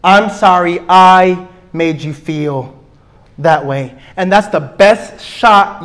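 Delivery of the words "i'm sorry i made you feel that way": slow and sincere; mean every word; sincere apology. Shown as a demonstration.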